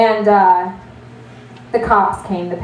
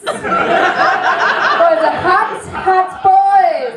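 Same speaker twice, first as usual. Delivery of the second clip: higher, very slow, stretching each word out; drawn-out flirting; 9 semitones higher, much slower than usual.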